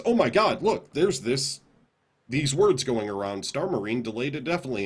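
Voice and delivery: hammed-up "look at this!" panic; mock alarmed excitement. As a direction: parody the media getting worked up. Mimics media sources' alarmed reaction.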